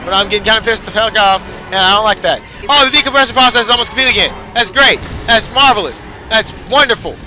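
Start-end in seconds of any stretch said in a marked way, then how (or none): 2.7-7.1 sarcastic praise. Real, not acted. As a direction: pretend to be delighted while annoyed. Decompression process starting yet again.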